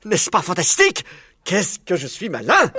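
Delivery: high, loud, gleeful crowing; exultant boasting. A narrator's reading. Fox congratulates himself on hitting the target, gleeful boasting. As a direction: brag with delighted excitement. Fox crows over his success.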